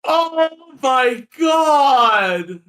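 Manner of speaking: long, high cry of disbelief; incredulous wail. Real, not acted. Cracking up at friend's trade idea, incredulous wail. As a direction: wail it out, drawn way out.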